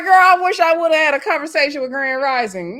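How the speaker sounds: loud and high, half laughing at her; mock-outraged friend; exasperated. Mock scolding the cast member.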